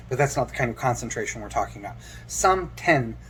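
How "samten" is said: "Samten" with ten as in tempo; "Samten" carefully, ten as in tempo; pronunciation demo. Shown as a demonstration. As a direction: say "Samten", its second syllable like the start of tempo. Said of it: "the ten as in tempo".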